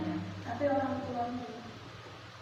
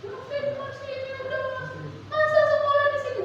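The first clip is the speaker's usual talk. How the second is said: parent scolding the principal with a sharply raised voice; complaining parent; 12 semitones higher than usual. Retold or imitated. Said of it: "saya pernah dioncongin kayak gitu".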